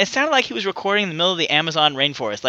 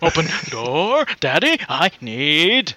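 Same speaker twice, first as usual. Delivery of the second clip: put-on kid voice; 3 semitones lower, much slower than usual. Kid voice acted in clip.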